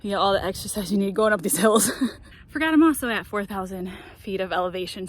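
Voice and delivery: panting after a climb; short of breath. Real, not acted. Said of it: "I'm probably out of breath".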